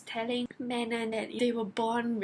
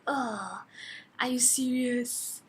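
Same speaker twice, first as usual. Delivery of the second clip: slow, drawn-out disbelief; exasperated groan; slower than usual. Retold or imitated. Reader reacting to a plot twist, exasperated.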